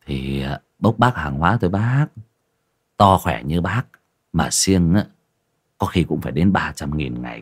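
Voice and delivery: lightly played loader talking up the work; a hint of a tipsy young laborer; lightly voiced drinking buddy.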